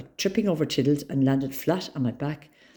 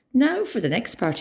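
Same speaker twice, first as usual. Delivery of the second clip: screamed; 9 semitones higher than usual. A narrator's reading. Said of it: "he screamed".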